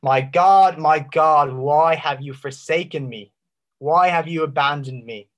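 anguished loud cry, easing off by the end; a forsaken plea, loudest at the start. Acted. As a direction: cry it out to heaven, then let it sink. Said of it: "And so he cries out".

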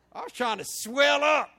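loud and high, laughing through it; can't hold back the laugh. Real, not acted. Preacher laughing at himself before the congregation, loud laughing. Laughing about his pride.

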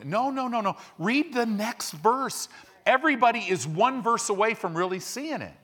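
preacher's rising correction; emphatic rebuttal. Real, not acted. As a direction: cut them off with passion.

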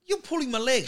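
high, incredulous protest; retold disbelief. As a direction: act stunned that she means it. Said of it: "I go".

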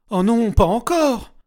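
high, loud, slow wail of panic; panicked cry. A narrator's reading. Regina waking in the white room again, panicked wail. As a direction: scream it as the nightmare starts over. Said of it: "une panique totale la submergea".

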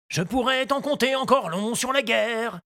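earnest gardener voice; explaining to the boy seriously; gardener Moustache. A narrator's reading. Moustache explains war to Tistou, earnest.

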